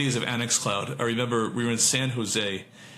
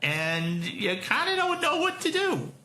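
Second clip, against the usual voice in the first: bewildered company; 13 semitones higher than usual. Pretend. Mock voice continues.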